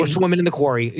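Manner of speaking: mock Philly accent; Delco Philadelphia accent. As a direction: parody a forced Delco accent. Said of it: "it's very Philadelphia".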